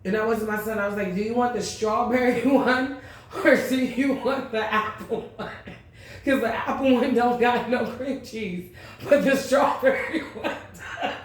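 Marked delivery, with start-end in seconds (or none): 1.1-11.1 high, sing-song and laughing; overly sweet, giggling as she ignores the rival. Retold or imitated. Asking her son about Danish while ignoring the rival, high and laughing.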